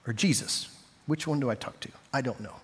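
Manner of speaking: confused aside. Acted. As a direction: drop the prayer voice to wonder privately. Confused aside during acted prayer.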